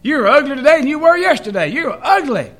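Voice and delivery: high, loud squawk with a laugh in it; laughing parrot crowing at the customer. Retold or imitated. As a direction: ham up a cheeky parrot screeching the insult. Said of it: "that parrot goes".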